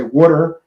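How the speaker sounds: "water" as wooder; Philly pronunciation. Shown as a demonstration. Host showing how Philly natives talk, "water" as wooder. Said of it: "somebody's from Philly when they say water".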